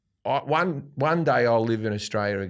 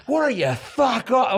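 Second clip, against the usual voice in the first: mock fired-up retort; 11 semitones higher, 4 dB louder, slower than usual. Retold heated quote on show.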